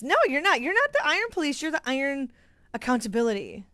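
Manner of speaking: high, loud playful protest; excited teasing. Real, not acted. Sewing vlogger teasing a commenter, high and playful. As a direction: cheerfully contradict the viewer.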